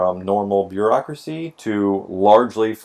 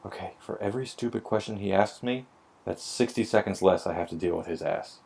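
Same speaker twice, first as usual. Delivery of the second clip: inner voice; 9 dB quieter than usual. Retold or imitated. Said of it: "I tell myself".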